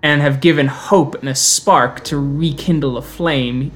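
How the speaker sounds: put-on thick Spanish accent. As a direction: speak with a heavy Spanish accent. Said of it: "with a very thick Spanish accent".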